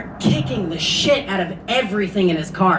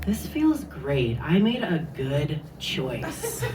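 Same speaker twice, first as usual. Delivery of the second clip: hushed, slow inner thought; mock whisper; 3 semitones lower, 6 dB quieter, slower than usual. Hitchhiker to herself, a slow hushed whisper. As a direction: breathe it like a happy secret.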